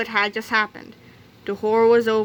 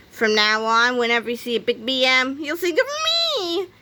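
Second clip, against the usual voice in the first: villain voice; 3 semitones higher than usual. Acted. Big Melvin boasting.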